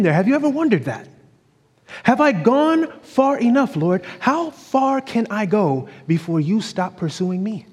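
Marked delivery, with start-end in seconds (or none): 2.0-7.6 high, slow, pleading question to God; an eight-year-old asking God how far is too far, pleading; anxious child's plea. Retold or imitated. Slow, high, lightly acted child's worry. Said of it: "I'm just wondering to myself".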